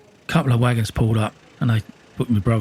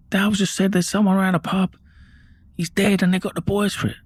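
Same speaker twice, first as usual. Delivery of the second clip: retold distressed news; 10 semitones higher than usual. Passing the news on to mum.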